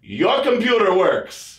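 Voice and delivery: high, slow, drawn-out teasing; knowing tease. Retold or imitated. Cleaning lady tells him his computer works, slow and teasing. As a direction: let it land slowly and knowingly.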